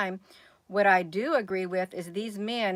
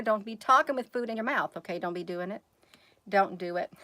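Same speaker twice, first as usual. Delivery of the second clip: scolding mom; 4 semitones higher than usual. Real, not acted. Mother scolding child for talking with a full mouth, motherly scolding.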